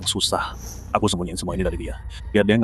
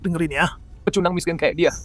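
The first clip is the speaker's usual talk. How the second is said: mocking contempt; 5 semitones higher than usual. Rich father mocks the adoptive father.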